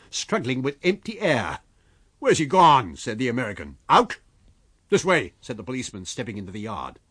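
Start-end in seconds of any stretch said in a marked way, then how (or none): 2.2-3.0 urgent shout. A narrator's reading. Fight, urgent question. 3.9-5.3 shouting. A narrator's reading. Chase, calling out.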